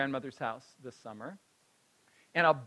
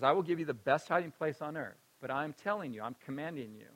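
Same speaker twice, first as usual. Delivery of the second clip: solemn grandma command; 4 semitones lower, 8 dB quieter than usual. Retold or imitated. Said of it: "She says".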